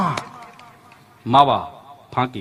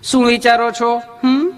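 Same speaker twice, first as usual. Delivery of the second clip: higher, sugary nurse voice with a questioning hum; sweet nurse; 3 semitones higher, slower than usual. Retold or imitated. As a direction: play the gushing nurse, all honey.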